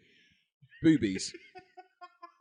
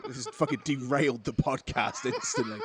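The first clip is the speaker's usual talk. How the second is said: laughing while talking; 2 semitones higher than usual. Real, not acted. Laughing fit continues.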